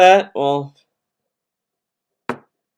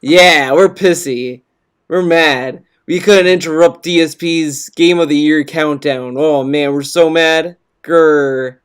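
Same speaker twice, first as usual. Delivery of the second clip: sarcastic mock anger; 4 semitones lower than usual. Sarcastically pretends to be angry.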